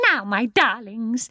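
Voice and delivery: slow, coaxing endearment; suddenly sweet. A narrator's reading. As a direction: turn all sweetness to the children. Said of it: "in quite a different voice".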